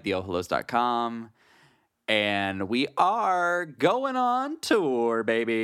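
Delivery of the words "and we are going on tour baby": slow, drawn-out hype; hype announcer. Acted. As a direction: stretch it like a hype man. Hyping tour announcement.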